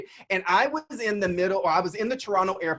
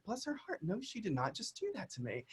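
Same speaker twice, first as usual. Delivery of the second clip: inner sarcastic thought; 3 semitones higher, 13 dB quieter than usual. Retold or imitated. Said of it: "I was like".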